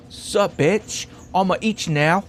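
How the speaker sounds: hammed-up Aussie tough-guy accent; mock Australian horsefly. Giant horsefly threatening its victim, mock Australian accent. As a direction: play a cocky fly with a fake Australian accent.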